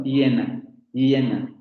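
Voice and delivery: "hiena" with the in-between semiconsonant y. Shown as a demonstration. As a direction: glide lightly into "hiena". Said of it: "Estoy pronunciando hiena". ("hiena" con semiconsonante)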